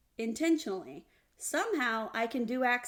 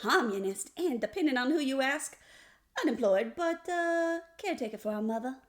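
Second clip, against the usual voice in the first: =playful Southern-style self-introduction; folksy host spiel; hammed-up show intro; 3 semitones higher than usual. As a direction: list credentials with mock ceremony. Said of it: "I couldn't keep it straight".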